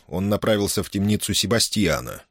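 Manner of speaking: ordinary delivery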